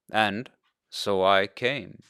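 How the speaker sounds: slow, gentle father's reassurance. Acted. Eliakim reassures the injured boy, slow and gentle. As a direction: ease it out slowly and kindly. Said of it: "Eliakim said gently".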